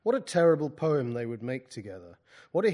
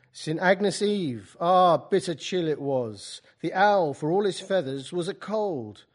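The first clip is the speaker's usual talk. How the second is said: put-on slow Keats in a Cockney accent; 4 semitones higher, 6 dB louder, slower than usual. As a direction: draw the verse out in a Cockney accent. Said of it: "A Cockney mutter in your ear".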